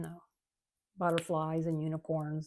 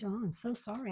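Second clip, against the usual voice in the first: end of a yawn; 5 semitones higher than usual. Real, not acted. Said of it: "I don't know why I'm yawning".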